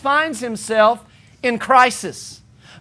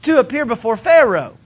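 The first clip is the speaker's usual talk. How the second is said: protesting Moses; 3 semitones higher than usual. Retold or imitated. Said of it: "He says".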